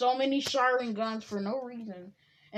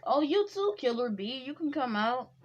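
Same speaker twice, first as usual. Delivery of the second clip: excited call; 4 semitones higher, 5 dB louder than usual. Acted. God calls out to Killer Bee.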